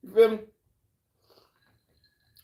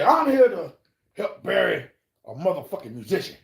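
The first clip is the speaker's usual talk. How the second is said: higher and louder start; loud declaration; 3 semitones higher, 3 dB louder than usual. Retold or imitated. Wolf announces he came to bury a musician, loud. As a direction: declare it boldly. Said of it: "He said".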